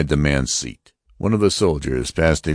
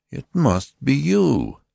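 grating accusation; 11 semitones higher, slower than usual. Acted. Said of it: "the lighter grated".

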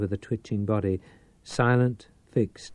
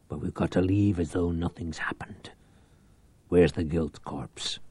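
conspiratorial whisper; 4 semitones lower, 3 dB quieter than usual. Acted. The two plotters whisper their escape plan. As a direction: keep it a secret whisper.

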